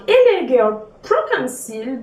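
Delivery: English product name in a real French accent; English words in an unpolished French accent. Real, not acted. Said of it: "ne vous moquez pas de mon accent, de mon accent anglais".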